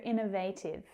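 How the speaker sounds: "innovative" with third syllable as "vay"; alternative pronunciation. Shown as a demonstration. Teacher offers learners another version, "innovative" with a long A in "vat". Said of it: "You might also hear".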